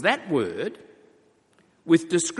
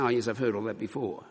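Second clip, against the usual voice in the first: bored dismissal; 5 semitones lower, 5 dB quieter, faster than usual. Retold or imitated. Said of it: "Rather than just saying".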